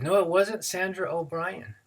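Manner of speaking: put-on high-pitched boyish denial; denying teenage boy. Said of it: "the boy said".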